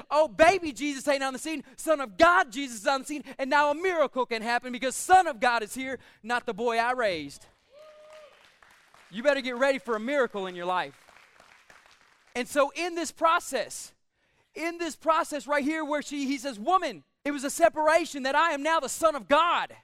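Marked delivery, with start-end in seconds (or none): 0.1-7.5 preacher's excited Mary, punching key words. Acted. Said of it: "she should have got excited and said". 12.4-19.8 emphatic, driving pulpit delivery; preaching. Acted. Preaches with raised force.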